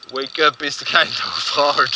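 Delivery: lente, pâteuse, à moitié endormie; voix endormie. Pretend. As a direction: joue le réveil difficile. (réveil pâteux, lentement)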